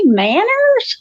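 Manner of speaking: high, drawn-out disbelieving question; incredulous. Real, not acted. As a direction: scoff in real disbelief. Scoffing at the idea of manners.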